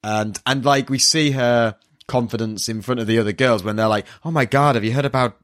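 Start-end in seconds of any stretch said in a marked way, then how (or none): 4.2-5.4 put-on American gossip voice, pitched up; American accent. Girls at school gossiping about Yusuke, mock American accent. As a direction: imitate American schoolgirls gasping over news. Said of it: "doing such an American accent".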